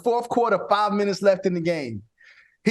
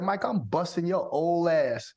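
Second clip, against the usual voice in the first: mild trash talk; 3 semitones lower, 5 dB quieter than usual. Retold or imitated. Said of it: "Nate walked up to me and said".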